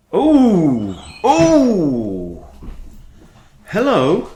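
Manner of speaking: loud, high calls falling away; calling out. Real, not acted. Streamer to noisy dogs mid-game, calling out loudly. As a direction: holler to get the dogs' attention.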